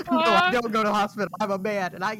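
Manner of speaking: mock American South. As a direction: tease with an American South accent. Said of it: "I might hear in the American South".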